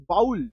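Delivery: "वाउल" said as one gliding 'vowl'; correct pronunciation. Shown as a demonstration. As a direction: say "वाउल" with an ow glide. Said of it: "जो correct इसका उच्चारण होता है".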